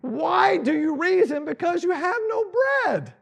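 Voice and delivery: high and loud, slowed rebuke. Acted. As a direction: raise the voice at the forgetful disciples. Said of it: "wish the Bible had volume to it".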